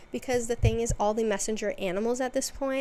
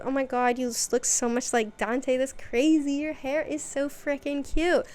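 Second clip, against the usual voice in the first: mock gushing, higher and a bit louder; gushing over the kid; 4 semitones higher, 3 dB louder than usual. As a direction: play up a fan squealing over a cute kid. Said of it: "and she's like".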